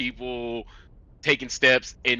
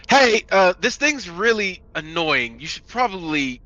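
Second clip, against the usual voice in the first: high-pitched call, loud at first; 10 semitones higher, 4 dB louder than usual. Acted. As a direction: yell over to an ally, then ease off. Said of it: "yell over to Mika".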